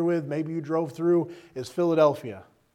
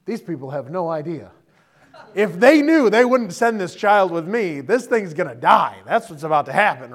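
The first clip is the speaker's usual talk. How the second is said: mock panic; 5 dB louder than usual. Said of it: "you think".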